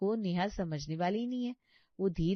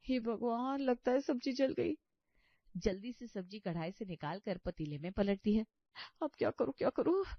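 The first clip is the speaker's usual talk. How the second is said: a flustered wail to herself; panicked young bahu; 3 semitones higher, 5 dB quieter than usual. Acted. Neha finds the dish burnt. (घबराहट में ऊँची होती आवाज़)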